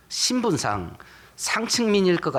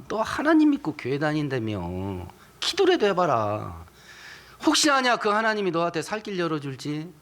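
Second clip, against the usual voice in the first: mocking unbeliever. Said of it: "나 사는 걸 보는 불신자가".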